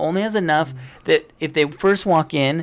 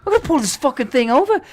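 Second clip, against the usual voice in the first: raised, loud mock exasperation in Australian accent; angry Australian; 11 semitones higher, 5 dB louder than usual. Dad to Nathan about a flat tire, mock Australian anger. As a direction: imitate an Australian driver getting more worked up. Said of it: "he's Australian. He's like".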